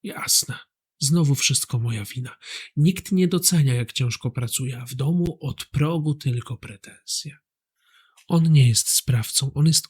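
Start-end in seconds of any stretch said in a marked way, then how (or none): 0.0-7.4 softly muttered self-pity, mock hurt; a hint of a sulking husband playing victim. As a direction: sulk like a wronged martyr, quietly. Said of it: "Albo ofiara".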